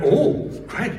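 put-on high, loud Malaysian-accented pastor; bad but loving Malaysian accent; Malaysian accent impression. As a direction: do a fond, rough Malaysian accent. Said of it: "I'm gonna do the accent, it's terrible".

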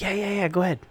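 high, dismissive parent voice, lightly put on; mock carefree "sure, go ahead"; mocking careless parent. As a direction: brush it off like a parent who doesn't care. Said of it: "you would just be like".

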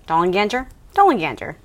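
Dollenganger with a soft G, j sound. Shown as a demonstration. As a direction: say Dollenganger as Dollen-gan-jer. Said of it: "I like a soft G".

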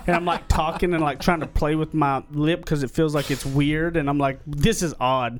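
numb mouth after dental work; numb from the dentist. Real, not acted. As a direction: talk with half a numb face. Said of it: "half of my face is numb".

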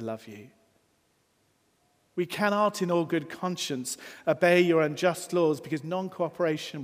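a hint of rising civil rights preaching, without an accent; Martin Luther King oratory. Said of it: "I won't do the accent ... I'll do my best".

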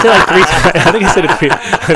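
laughing while talking; chuckling through the words. Real, not acted. Laughing at own mistake.

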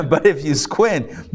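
chuckling through the words; laughing. Real, not acted. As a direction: laugh at your own joke while saying it. Joking about squinting at chart.

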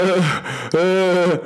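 drawn-out mock drunken groan; imitated drunken laugh. Imitating drunk friend being given water, groggy laugh. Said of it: "he was laughing. He's like".

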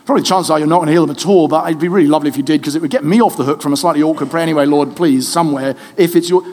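fast, hedging, mock timid prayer; equivocating prayer. Preacher mocking an unsure healing prayer, fast and hedging. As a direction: mumble a half-hearted prayer quickly. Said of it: "you don't have to equivocate".

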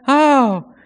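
normal talking voice

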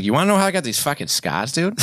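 put-on Joker with a thick Boston accent; Boston accent Joker taunt. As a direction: growl it like a Boston tough guy. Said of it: "if the Joker was from Boston".

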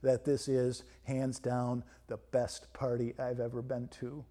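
lightly voiced mechanical speech device; hint of a spooky robot voice. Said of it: "with its spooky mechanical voice".

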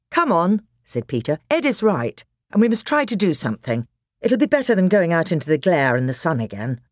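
rally the others quickly; older boy voice. Acted. Peter rallies them.

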